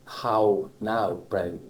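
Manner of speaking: how now brown with a broad Cornish ow; Cornish ow sound. Shown as a demonstration. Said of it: "Do you have trouble saying ow".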